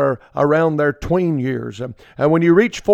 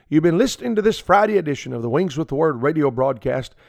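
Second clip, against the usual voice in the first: measured announcer read of the closing; radio sign-off. Acted. Preacher closing his radio program for listeners, announcer style. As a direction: wrap up the broadcast warmly.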